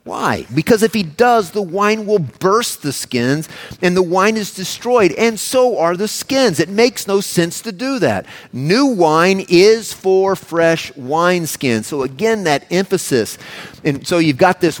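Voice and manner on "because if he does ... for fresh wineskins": higher, slowed, insistent reading; emphatic quote. Retold or imitated. Pastor voicing Jesus to the church, raised and insistent. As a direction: drive each clause home like a warning. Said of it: "notice the emphatic nature of this".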